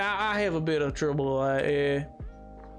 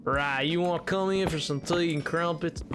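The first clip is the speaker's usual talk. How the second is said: put-on British tea invitation in a Southern accent; Britishisms in Southern accent. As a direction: say it British in wording, Southern in sound. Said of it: "colloquial Britishisms in, in, in a Southern accent".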